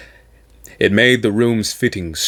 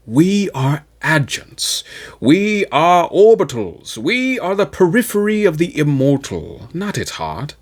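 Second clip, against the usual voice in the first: solemn creed; 3 semitones higher than usual. Acted. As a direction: intone it like a sacred oath. Recited creed of the Order.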